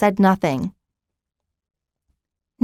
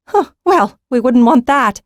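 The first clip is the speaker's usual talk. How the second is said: amused, louder with a laugh on huh; 6 semitones higher, 6 dB louder than usual. A narrator's reading. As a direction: chuckle it out, teasing. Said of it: "Nera laughed".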